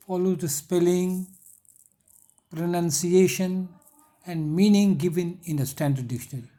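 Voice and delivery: reads the English line very slowly for notes; slow dictation. Shown as a demonstration. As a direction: dictate each word slowly and clearly. Teacher dictating English text slowly.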